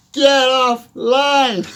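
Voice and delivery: "Get offline" shouted high, slow, and laughing. Shown as a demonstration. Viewer glued to screen, laughing shouted order. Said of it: "repeat escalated shout".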